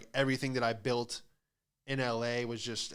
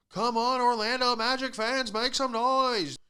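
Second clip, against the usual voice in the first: higher, slow, drawn-out hype man; arena hype announcer; 10 semitones higher, 3 dB louder than usual. Retold or imitated. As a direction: pump up the crowd like the arena announcer.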